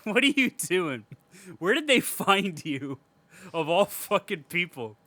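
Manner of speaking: hammed-up who-are-you disbelief; mock baffled. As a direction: gape at the dad-like guy. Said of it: "I'm just like".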